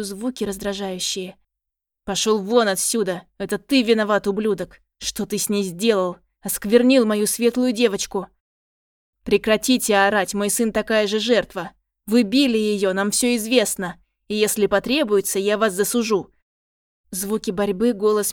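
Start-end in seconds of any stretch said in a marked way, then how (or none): 2.0-8.3 loud enraged shouting; father yelling at the boy, furious. Acted. 9.2-16.3 loud defiant shouting; mother defending her son, shouting; angry shout. Acted. Mother shouts back at father.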